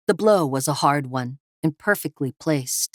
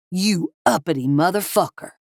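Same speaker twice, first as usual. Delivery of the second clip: yelled; 3 semitones higher than usual. Acted. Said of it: "Kevin yelled".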